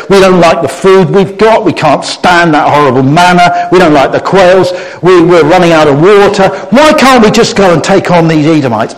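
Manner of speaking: grumbling, moaning list of complaints; whiny complaining crowd. Acted. The Israelites grumbling about food and water, whiny and put-upon. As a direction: moan it like fed-up travellers.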